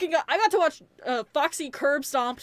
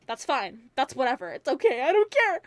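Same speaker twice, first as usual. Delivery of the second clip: imitating him insisting he's fine, rising and louder to the end; feigned indifference; 5 dB louder than usual. Reviewer mimics the brother hiding hurt, feigned indifference. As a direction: protest too much, mock unbothered, building. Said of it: "But the way he's like".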